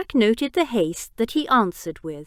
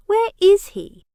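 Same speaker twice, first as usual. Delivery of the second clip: higher and louder, a sharp demand; angry demand; 12 semitones higher, 7 dB louder than usual. A narrator's reading. Jack demands the uncle's whereabouts from Biggs, loud and angry. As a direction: bark the question at him.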